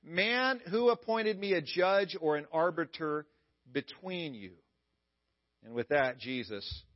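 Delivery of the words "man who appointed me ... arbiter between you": curt. Pretend. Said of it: "very curtly says".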